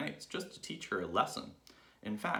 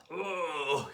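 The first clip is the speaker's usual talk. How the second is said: shocked; 9 semitones higher, 5 dB louder than usual. Acted. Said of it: "he said".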